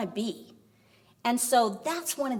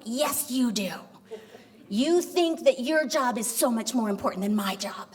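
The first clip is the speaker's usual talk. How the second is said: indignant retort. Retold or imitated. Wife contradicts husband in quarrel.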